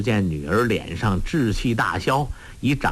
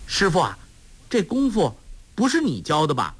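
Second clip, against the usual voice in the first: put-on teasing girl; 5 semitones higher, faster than usual. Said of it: "黄蓉说".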